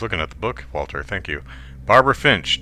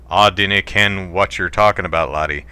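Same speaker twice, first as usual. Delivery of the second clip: put-on Scottish accent. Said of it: "my Scottish accent isn't the best".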